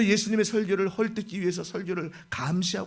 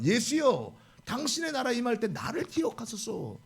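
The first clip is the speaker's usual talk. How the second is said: "당신의" pleaded a little higher, earnestly; 5 semitones higher than usual. Retold or imitated. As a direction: beg sincerely, a touch higher. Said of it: "이렇게 간곡히 말을 합니다". (간곡하게 애원하듯)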